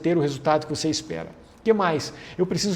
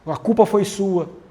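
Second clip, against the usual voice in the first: blaming accusation; 3 dB louder than usual. Shown as a demonstration. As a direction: throw the blame at them. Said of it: "eu não posso fazer forma de acusação".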